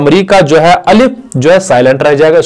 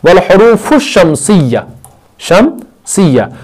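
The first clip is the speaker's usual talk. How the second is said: slow demo; 5 semitones higher, much slower than usual. Shown as a demonstration. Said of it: "यहां पर हुर्फ़े शमसी में देखो".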